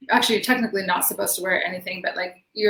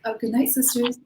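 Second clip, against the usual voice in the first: higher, mildly taken-aback greeting; imitated respectful reply; 4 semitones higher than usual. Catcallers answering the woman as sisters, higher and polite. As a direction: imitate men suddenly turning polite. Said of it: "and were like".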